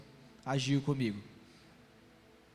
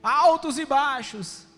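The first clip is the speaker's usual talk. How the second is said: 1 voicing God; 3 semitones higher than usual. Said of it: "Deus falou assim comigo".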